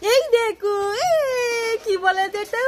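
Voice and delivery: drawn-out, sing-song mock fright; playful alarm. Parent showing Rai a big bug, playful alarm. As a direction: tease with stretched-out cries of alarm.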